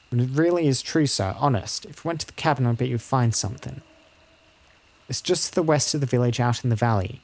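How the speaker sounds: lightly voiced child insisting it is true; a hint of a child recounting a scare; earnest village child. Child telling a visitor of the shadow she saw, lightly voiced and earnest.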